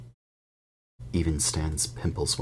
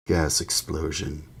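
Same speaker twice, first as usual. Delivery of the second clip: grunted. Acted. Ern answering Stan's question, slow grunt. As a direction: grunt it flatly. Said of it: "grunted Ernie".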